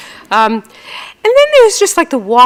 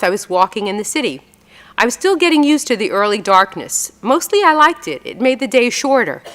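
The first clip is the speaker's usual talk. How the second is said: calm reading-aloud voice; story reading. Acted. Author reading her New Yorker story to audience, measured reading.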